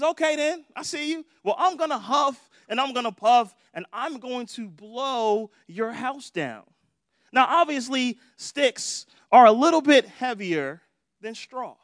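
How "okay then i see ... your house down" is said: preacher voicing the wolf's threat; threatening wolf. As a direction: warn the pig like a cocky wolf. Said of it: "And he says".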